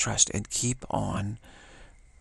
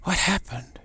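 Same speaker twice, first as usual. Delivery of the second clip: high, slow mock fretting after a fall; high, slowed mock alarm at falling; mock dismay; 7 semitones higher, 3 dB louder, slower than usual. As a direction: play a flustered faller, slowly. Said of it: "You don't go".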